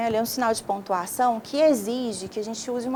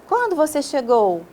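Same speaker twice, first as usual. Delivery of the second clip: higher, louder direct question on "Quando você chegou"; direct question intonation; 5 semitones higher, 5 dB louder than usual. Shown as a demonstration. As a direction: ask "Quando você chegou" pointedly, pitched up and projected. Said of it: "O ponto de interrogação também exige uma entonação".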